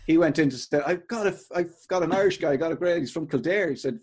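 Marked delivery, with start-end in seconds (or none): 0.9-3.7 higher, pleased-as-punch retelling; delighted with himself. Retold or imitated. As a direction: imitate someone proudly announcing a find. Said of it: "he was delighted with himself".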